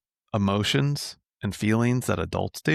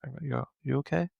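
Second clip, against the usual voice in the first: soft, higher, gentle check-in; imitating calm dad; 4 semitones higher, 6 dB quieter, much faster than usual. Dad asking his acting-up kid if he's okay, calm. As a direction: play a dad checking in softly. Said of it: "calm voice. I remember my dad used to always do this".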